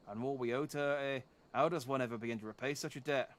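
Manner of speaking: a lightly done Canadian father, eh at each end; a proud old Canadian father, solemn; Canadian accent. Acted. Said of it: "I know I can do a Canadian accent".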